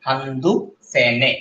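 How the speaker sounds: হান্দু সে নে said slowly as handu se ne, endings dropped; spoken Korean form. Shown as a demonstration. Teacher repeating the spoken Korean numbers slowly. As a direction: drill হান্দু সে নে slowly for the class. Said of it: "যখন আপনি বলবেন তখন হান্দু সে নে".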